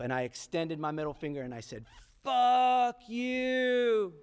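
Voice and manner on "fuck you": high, loud, sneering shout of the words; defiant yell. Retold or imitated. Boy yelling at passing rival on bike, loud and defiant. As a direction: spit it at him like a tough kid.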